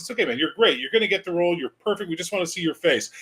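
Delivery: high, wheedling studio exec; coaxing casting director. Retold or imitated. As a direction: coax him gently but pushy. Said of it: "We'd be like".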